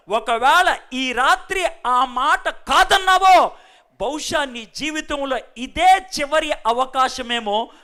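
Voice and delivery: slow, weighty preacher's warning; slow preaching warning with a shout. Acted. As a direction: lean in hard on the last chance.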